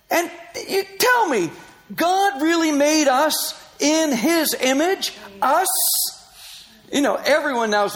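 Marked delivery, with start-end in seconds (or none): 0.1-5.7 retold incredulous challenge, high and slow; mock disbelief, stretching it out; lightly voiced scoffing woman.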